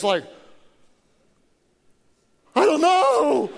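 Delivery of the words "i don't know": nervous laugh. Retold or imitated. Panicked reply to wife.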